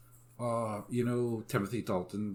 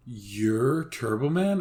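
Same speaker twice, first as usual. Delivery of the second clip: mock amazed kid; 6 dB louder, much slower than usual. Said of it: "Jamie turns around and goes".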